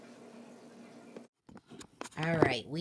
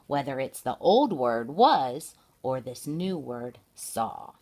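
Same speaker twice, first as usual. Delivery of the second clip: slow and clear; 2 semitones lower, 4 dB louder, slower than usual. Shown as a demonstration. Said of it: "contrasting was and saw slowly".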